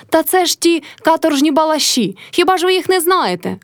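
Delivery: high shout to the gathered crowd; Motrya shouting. A narrator's reading. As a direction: rise up and call out to the neighbours. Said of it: "кричала Мотря до людей".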